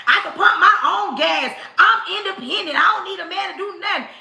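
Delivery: fast, defiant mock rant; mock independent woman. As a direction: snap back proudly, hammed-up independence. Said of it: "Y'all will be like".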